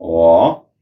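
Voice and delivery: वा said low and dipping, third tone. Shown as a demonstration. Teacher demonstrates वा to the class. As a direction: drop low and dip on वा. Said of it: "पीछे वाले final की sound लेता है".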